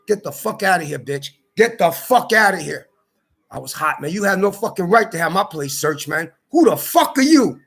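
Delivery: retold angry yelling. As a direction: throw her out, furious. Retold shouting match with landlady.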